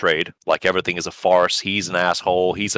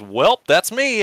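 meek comeback; 12 semitones higher, slower than usual. Retold or imitated. Deflated friend gives up.

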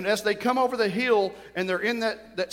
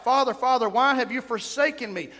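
raised, pleading quoted cry; 4 semitones higher than usual. Retold or imitated. Preacher quoting Jesus in the garden, restrained cry. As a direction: call out in anguish, held in check. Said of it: "He cried out".

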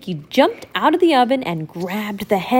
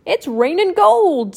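high, excited duck voice; Donald voice; 8 semitones higher, 4 dB louder than usual. Acted. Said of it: "said Donald".

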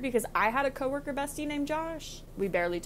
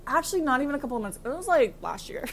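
mimicking friend; 4 semitones higher, faster than usual. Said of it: "And you're like".

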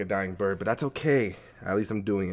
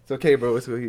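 laughing; 2 semitones higher, 4 dB louder than usual. Real, not acted. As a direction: laugh it off, bro. Laughing shriek.

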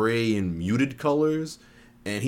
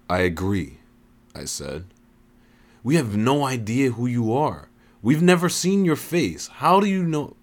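suspicious; 4 semitones higher than usual. Acted. Narrator questions the voice.

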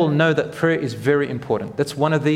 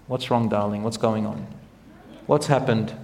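gentle teacher; 5 semitones lower, 4 dB quieter than usual. Retold or imitated. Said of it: "we come and say".

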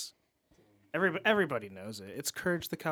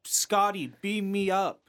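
commanding captain; 5 semitones higher, 4 dB louder than usual. Retold or imitated. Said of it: "Chris Pine said".

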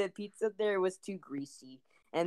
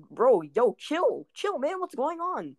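retold urgent plea; 10 semitones higher, 3 dB louder, slower than usual. Retold attempt to calm angry kid.

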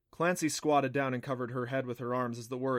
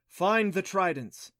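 slow, loud, raised oracle command; goddess's command; 7 semitones higher, 6 dB louder, slower than usual. A narrator's reading. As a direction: intone the order slowly and forcefully. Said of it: "the voice said".

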